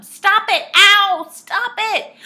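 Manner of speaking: high, loud, pained protests; shouting. A narrator's reading. Saucepan man being attacked above, shouting. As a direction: yell as if under attack. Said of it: "shouted the saucepan man".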